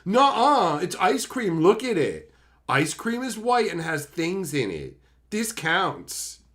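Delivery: imitating someone insisting against the obvious; mock childish insistence. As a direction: dig in like a mock sulky arguer. Voicing stubborn side of quarrel.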